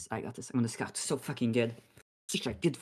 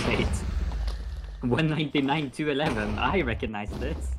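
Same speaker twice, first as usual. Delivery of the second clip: excited; 2 semitones higher, 5 dB louder than usual. Retold or imitated. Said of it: "I'm like".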